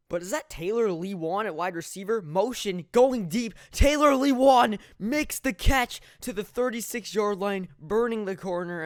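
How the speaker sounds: building to a loud, high shout; astonished sportscaster yelling the big play; excited play-by-play. Real, not acted. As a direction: erupt as the long catch is made. Calling a surprise long catch.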